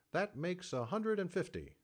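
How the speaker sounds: tally the sum aloud; calculating. A narrator's reading. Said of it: "the saloon keeper calculated".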